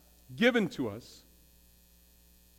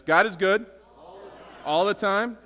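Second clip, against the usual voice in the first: God is good called out louder to the room; rally the congregation with a bigger call of God is good; 2 semitones higher, 3 dB louder than usual. Shown as a demonstration. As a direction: pastor calls out God is good again, bigger, to wake the congregation. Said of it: "let's try it one more time".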